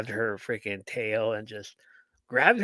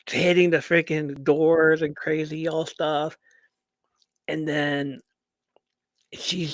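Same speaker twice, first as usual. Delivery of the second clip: whisper; 3 semitones higher than usual. Real, not acted.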